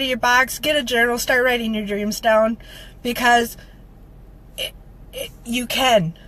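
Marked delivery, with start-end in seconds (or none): 4.6-6.1 tearful, barely voiced stammer; getting emotional. Real, not acted. Speaker urging viewers to believe, choking up. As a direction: catch on the words, very soft, near tears. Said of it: "I'm getting emotional again".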